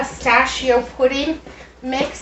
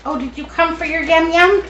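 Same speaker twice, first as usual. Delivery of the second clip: talking to a pet; 5 semitones higher, 5 dB louder than usual. Real, not acted. Talking sweetly to the dog.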